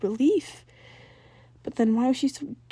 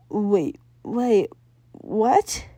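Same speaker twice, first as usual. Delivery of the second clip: surprised Jazz; 4 dB louder, much slower than usual. A narrator's reading. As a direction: stop short in disbelief. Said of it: "Jazz asked".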